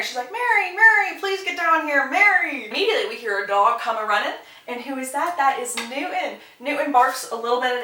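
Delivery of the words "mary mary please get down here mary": high, loud mock call for help. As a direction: holler for someone downstairs, imitating her urgency. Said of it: "so she calls for Mary".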